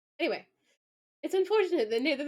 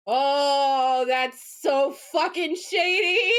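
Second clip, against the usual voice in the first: loud, drawn-out, rising gleeful exclamation; delighted scandalized shout; 7 dB louder, much slower than usual. Real, not acted. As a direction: relish the shade at full volume. Delighted reaction to a veiled insult.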